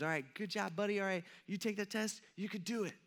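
soft-voiced pep talk to a child; encouraging. Father cheering on his first grader at a test, encouraging. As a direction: reassure the little test-taker, quietly. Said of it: "I give him all the encouragement he needs".

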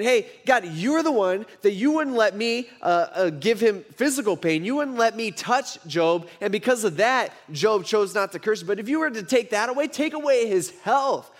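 mildly hammed-up accusing Satan; acted blaming. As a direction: argue with God and lay the blame on God. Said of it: "it's almost like he's blaming God".

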